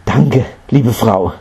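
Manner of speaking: slow, mildly pleased thanks; happy thanks. A narrator's reading. Mother thanking the housewife for seeds, mildly joyful. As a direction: draw out a grateful thank-you. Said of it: "sagte Kisagotami freudig".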